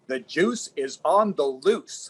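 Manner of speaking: slow, lightly done Howard Cosell sportscaster delivery; a mild nod to Howard Cosell, drawn out; playful Howard Cosell quip, slow; Howard Cosell accent. Retold or imitated. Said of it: "in his best Howard Cosell accent said".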